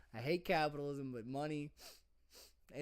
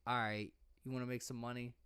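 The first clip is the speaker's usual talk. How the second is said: low, quiet pimp sales pitch; a hint of a pimp, said low and soft; 5 semitones lower, 5 dB quieter, faster than usual. Pimp coaxing a partner to earn, low and smooth. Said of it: "You say it like a pimp".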